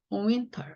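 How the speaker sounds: "윈터" ending on a light R; slight R sound. Shown as a demonstration. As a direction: let the final 터 of "윈터" take a faint ㄹ. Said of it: "리을 소리가 약간 있다". ("윈터" 끝에 리을 소리를 살짝 넣어서)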